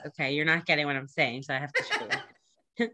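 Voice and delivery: lightly voiced patient mom; mock mom explaining. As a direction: tease her like a mother showing a kid, laughing. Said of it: "I could tell you're a mom 'cause you're like".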